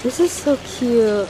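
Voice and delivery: gushing. Real, not acted. Admiring the art area.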